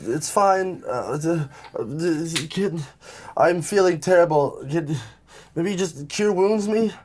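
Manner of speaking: high, halting injured voice; pained. Acted. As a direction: weakly plead for help. Wounded character asks for healing.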